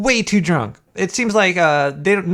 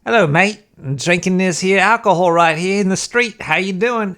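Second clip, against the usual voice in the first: bad Cockney; 2 semitones higher, 3 dB louder than usual. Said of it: "develop a really bad Cockney accent".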